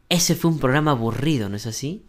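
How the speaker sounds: "no es así" falling away, seeking only agreement; confirmation tag, falling. Shown as a demonstration. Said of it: "No estoy preguntando, solo estoy pidiendo confirmación".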